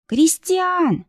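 high, sobbing call of his name; sobbing cry. A narrator's reading. Kristina sobs for Christian in the storm. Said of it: "рыдала она".

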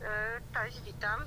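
tinny phone voice; on speakerphone. Real, not acted. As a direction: caller coming through a speaker. Ja przełączę na głośnik.

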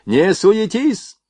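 steady the crew from a distance; ordering. A narrator's reading. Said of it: "приказывал он".

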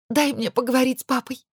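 high, begging plea to her husband; pleading. A narrator's reading. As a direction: beg him, voice up. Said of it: "взмолилась я". (умоляя мужа)

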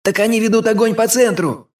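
high alarmed cry; shouted protest. A narrator's reading. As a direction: shout the objection across the line. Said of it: "выкрикнул кто-то". (выкрик встревоженного солдата)

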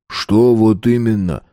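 slow challenging question back. A narrator's reading. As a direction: throw "вот именно" back as a question. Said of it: "спросил бульдожик".

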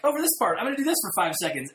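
fast, high mocking voice. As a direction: rattle it off in a mock kid voice. Repeats mock quote faster.

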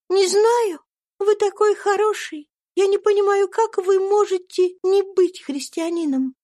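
put-on kind little girl comforting a friend; gentle young girl. A narrator's reading. Little Eva gives Topsy a lock of hair, high and kind.

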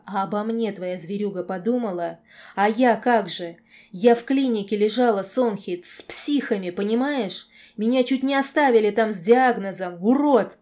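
loud, upset reproach rising to a shout; anguished accusation. A narrator's reading. Girl telling the lord about the clinic, anguished shouting. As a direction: build to a yelled final insult.

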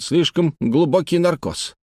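slow, high, mildly frightened; alarmed. A narrator's reading. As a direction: worry aloud, drawing the words out. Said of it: "испугался Хэммонд". (с лёгким испугом, медленно и высоко)

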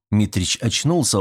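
ordinary talk, nothing marked

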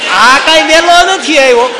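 put-on old man fires back, nobody's pushing him; indignant retort. Old man snaps back at the doctor, loud and slow.

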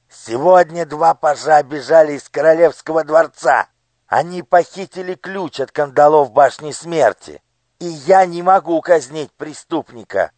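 high, commanding minister's voice; a cold lord issuing orders to his daughter; scheming minister. Acted. Minister reports escape. (властный голос министра)

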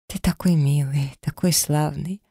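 put-on hushed, tearful whisper to the baby; такой славный whispered, holding back sobs; tender whisper. Mother holding back tears, tender.

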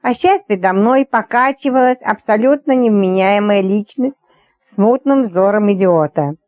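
usual speaking voice

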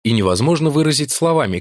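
ordinary talk, nothing marked

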